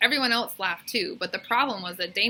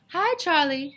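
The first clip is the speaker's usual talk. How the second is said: little skunk voice; 8 semitones higher, 5 dB louder than usual. A narrator's reading. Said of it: "said Stinky".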